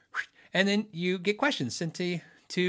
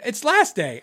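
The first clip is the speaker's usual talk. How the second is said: higher and louder, eager; gleeful agreement; 7 semitones higher, 6 dB louder, slower than usual. Retold or imitated. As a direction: blurt it out in delight. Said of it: "he said".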